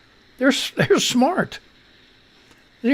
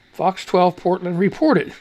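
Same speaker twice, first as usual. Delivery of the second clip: careful reread; 2 semitones lower than usual. Shown as a demonstration. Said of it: "we gotta get it right".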